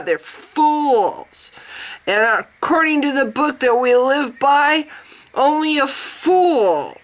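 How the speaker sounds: lightly put-on preachy lecture voice; hammed-up righteous rant; mock zealot. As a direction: parody a smug, scolding true believer. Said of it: "that's me trying to be".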